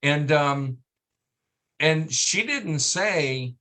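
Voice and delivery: normal talking voice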